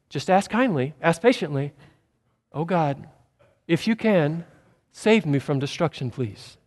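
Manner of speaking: timidly overpolite, dying away; mock polite plea. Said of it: "That, that's not it".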